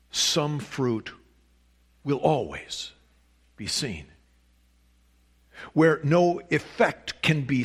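quotation read aloud from the pulpit, deliberate pauses; emphatic sermon reading. Real, not acted. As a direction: read it out weightily, phrase by phrase. I'd like to read to you.

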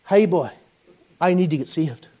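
put-on light Ballymena accent; a hint of Ballymena on the plea. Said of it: "my best Ballymena accent".

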